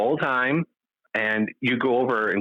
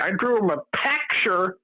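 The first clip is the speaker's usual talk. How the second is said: high imitation of a film character; Temple Grandin; 9 semitones higher than usual. Owner imitates Temple Grandin in the movie, higher voice. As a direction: pitch it up, quoting the movie role. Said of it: "She'd say something like".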